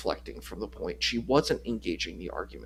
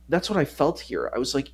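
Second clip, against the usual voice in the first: ordinary talk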